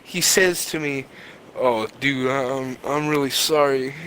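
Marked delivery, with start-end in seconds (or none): 1.6-3.9 low, apologetic concern. Retold or imitated. Retelling the driver apologizing to the injured passenger, low concerned voice. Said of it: "He gets very concerned sound in his voice".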